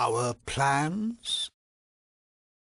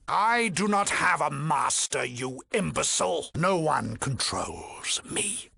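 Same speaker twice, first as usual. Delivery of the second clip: raised, indignant rebuke; offended, emphatic authority; indignant villain; 4 semitones higher than usual. Acted. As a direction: put the insolent intruder in their place. Villain offended at having a master.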